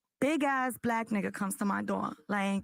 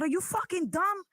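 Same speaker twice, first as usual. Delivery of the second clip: higher-pitched hood scolding; hood outburst; 6 semitones higher than usual. Retold or imitated. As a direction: let the hood come out in a high-pitched telling-off. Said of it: "My hoodness comes out".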